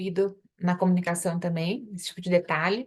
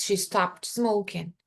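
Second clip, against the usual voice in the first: slow example sentence; slower than usual. Shown as a demonstration. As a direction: model it calmly and slowly. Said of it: "se eu falo".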